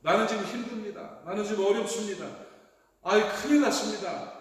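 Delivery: acted-out cry of a desperate man; voiced desperation. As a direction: plead as someone in real trouble. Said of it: "그런 회복을 원하는 절박감".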